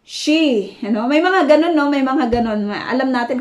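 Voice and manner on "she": She said on its own, a touch higher; sh sound. Shown as a demonstration. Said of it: "pronounce ng she". ("She" na hiwalay na binibigkas)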